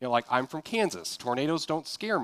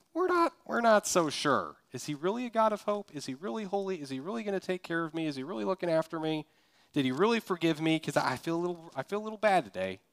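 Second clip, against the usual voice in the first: higher, anxious questioning voice of a worried believer; doubting believer; 5 semitones higher than usual. Pretend. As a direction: play the Monday doubter, pleading and unsure. Voicing doubting believers on Monday.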